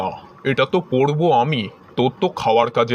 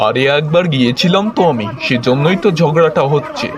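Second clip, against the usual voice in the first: loud reply; 7 dB louder than usual. Acted. Husband answers over the noise.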